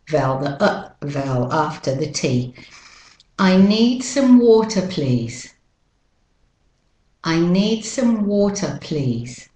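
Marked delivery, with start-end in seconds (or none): 3.4-9.5 British Australian sentence, "water" ending in schwa; British Australian pronunciation. Shown as a demonstration. Teacher models asking for water, British Australian accent. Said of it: "British Australian first".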